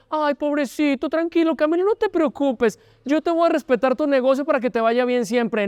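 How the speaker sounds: high, sugary mock consolation; mock pity. The world mocking Camilo with fake sympathy, high mock pity.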